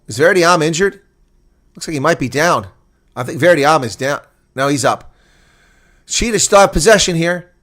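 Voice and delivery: ordinary talk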